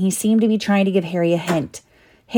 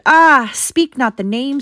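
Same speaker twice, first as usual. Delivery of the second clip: moaning; 7 semitones higher, slower than usual. A narrator's reading.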